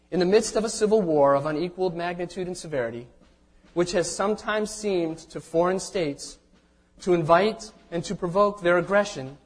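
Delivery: solemn, measured formal reading; formal proclamation reading. Acted. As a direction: read it like a historic proclamation. Reads Lincoln's proclamation aloud.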